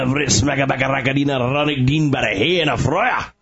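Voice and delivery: mock Scottish brogue, rolling through a long made-up name; Groundskeeper Willie. Co-host answers the can you do that challenge with a Scottish brogue. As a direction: rattle off the name in a hammed-up Scottish accent. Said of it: "Groundskeeper Willie".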